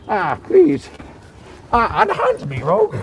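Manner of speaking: high, breathless pleading yelps; fluttering cries for help. Acted. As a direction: squeal for help like a fop in distress. Tackled character cries out.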